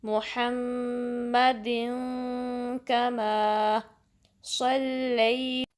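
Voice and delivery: मुहम्मदिन slow, the final नून hidden into the nose; slow recitation; ikhfa nasal. Shown as a demonstration. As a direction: hide the tanween of मुहम्मदिन in the nose. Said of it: "इख्फा करेंगे".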